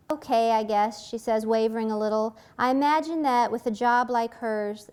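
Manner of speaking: measured novel reading voice; story reading. A narrator's reading. Author reading her scene aloud, even narration. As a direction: read the passage to the audience.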